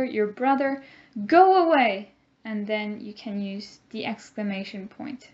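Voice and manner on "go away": higher, louder annoyed "Go away"; angry command. Shown as a demonstration. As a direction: shoo off a pesky sibling. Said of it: "maybe you say this to your friend".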